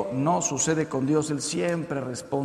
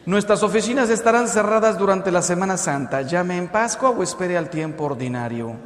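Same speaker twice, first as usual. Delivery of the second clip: automated answering machine. Acted. Heaven's office closed for Holy Week, lightly imitated recorded announcement. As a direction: announce closing hours like a recorded message. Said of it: "una contestadora automática".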